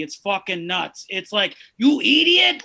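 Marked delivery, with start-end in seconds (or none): 1.8-2.6 put-on shouted, high Indian-accented "You idiot!" like Ren; old Indian man accent. Comic mimicking how older Indian men say "idiot", loud Indian accent. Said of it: "when old Indian men say the word idiot".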